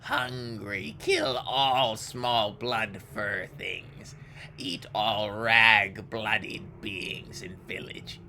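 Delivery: raspy hungry ghoul. Acted. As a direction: growl it like a starving ghoul. GM voices ghoul Akaste.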